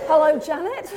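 hint of a street voice. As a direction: greet her with street swagger. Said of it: "It's very street when you do that".

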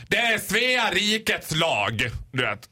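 slow, drawn-out mock bouncer. Bouncer quoting the law at the door, lightly imitated officiousness. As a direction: lay down the law like a doorman. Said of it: "nu lät du precis som en av vakterna".

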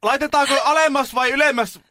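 slow, high-pitched hollered questions; shouting to the deaf. Retold or imitated. Nurse checks on deaf old patient, shouting. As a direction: yell each polite question at full pitch. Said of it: "meni vähän lähemmäs ja huusi".

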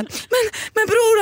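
high-pitched, scared stammer; mock terrified. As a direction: imitate a guy scared out of his wits. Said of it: "håller på att bajsa på sig". (härmar livrädd kille med ljus röst)

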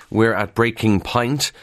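"point" said as "pint"; "point" as "pint", slow pun; breaking pint. Shown as a demonstration. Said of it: "that's P I N T".

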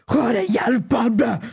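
slurred, drawn-out shouted mimicry of an old man; hammed-up angry old man; rude older man. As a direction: bellow it slowly, mocking an older man. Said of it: "typ en, en äldre man".

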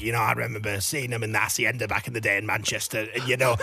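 low-pitched impression of a Mancunian festival promoter; Jeff Ellis. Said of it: "stop doing this impression".

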